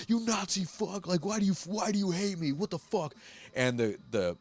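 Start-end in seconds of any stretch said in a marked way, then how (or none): 0.1-3.1 mock taunt. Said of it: "and goes".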